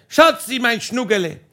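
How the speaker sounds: high mock call across the garden; playful hammed-up shout, fading fast; calling pet names. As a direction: sing out sweetly from the roof. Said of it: "Und ich hab geschrien".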